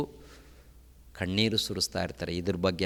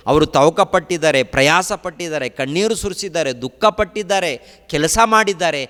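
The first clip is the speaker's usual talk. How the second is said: louder, driving sermon cadence; fervent preaching; 7 semitones higher, 10 dB louder than usual. Acted. Preacher telling of the apostles' tears, fervent. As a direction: press each phrase on the hall.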